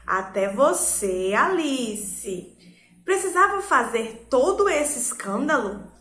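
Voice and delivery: slow, pointed reproach to Alice; provoking rebuke. Shown as a demonstration. Teacher scolding a student, pointed and slow. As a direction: needle Alice into rethinking. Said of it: "Percebam que são perguntas".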